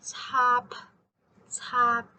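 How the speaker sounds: Tap, a puff of air on the P; aspirated final P. Shown as a demonstration. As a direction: Tap with a strong released P. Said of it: "a very obvious P sound, as in English".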